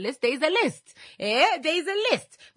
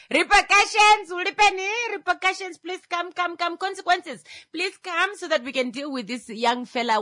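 high-pitched summoning call; acted grandfather invoking punishment; vengeful grandfather; 7 semitones higher than usual. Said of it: "Grandfather is like".

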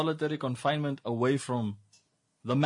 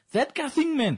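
Namibian English; 10 semitones higher than usual. Retold or imitated. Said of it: "It's Namibian English".

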